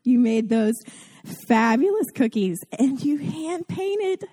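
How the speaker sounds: high, gushing mock awe over the cookies; gushing to a perfect mom about her cookies, high and breathless; gushing admirer. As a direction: fawn over her like a starstruck fan. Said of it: "And I'm like".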